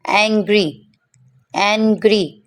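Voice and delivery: एंग्री opening on "ae"; stretched short-a sound. Shown as a demonstration. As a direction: model एंग्री in isolation, "aeng-gree". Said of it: "इसको भी थोड़ा खींच के पढ़ना".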